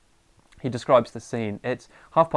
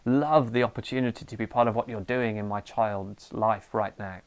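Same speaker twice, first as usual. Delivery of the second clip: mock pious gratitude. Parent thanking Jesus for the fighting kids, mock-sweet prayer. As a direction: pray as if thrilled to be woken at night. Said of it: "You are probably not saying".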